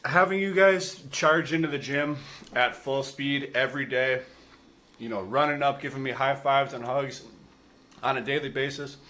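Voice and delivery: talking with mouth full. Real, not acted. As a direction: speak through a mouthful of sandwich. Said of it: "I'm talking with my mouth full".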